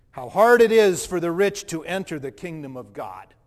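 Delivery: Jesus calling after the man as he walks away; calling after him. Retold or imitated. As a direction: call it out after the departing man. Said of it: "I heard it".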